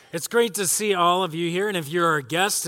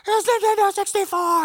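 a much higher, louder mock shriek of joy; imitating screaming kid; 5 dB louder than usual. Pastor imitates the Nintendo kid's famous scream, high mock shriek. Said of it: "screaming his head off".

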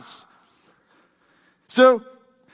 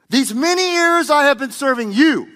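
acted indignant complaint, raised pitch; angry at his father; 4 semitones higher, 3 dB louder than usual. Older son protesting to his father, angry complaint. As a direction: push the grievance out, high and forceful. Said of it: "screaming at his father".

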